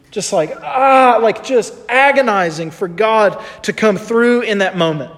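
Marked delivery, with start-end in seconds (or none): 0.6-1.2 higher, drawn-out groan of anguish; imitated agonized grunt. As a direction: groan as if praying beyond words. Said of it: "maybe grunts".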